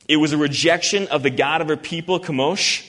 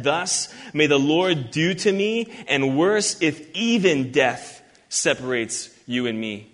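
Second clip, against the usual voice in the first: "Thus may the Lord do to me" read slowly and deliberately; slow down and weigh each word of the oath; better rendering. Shown as a demonstration. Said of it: "So this statement is better said".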